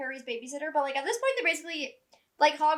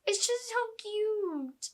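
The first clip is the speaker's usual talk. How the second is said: fond aww; 5 semitones higher, slower than usual. Retold or imitated. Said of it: "'cause I'm like".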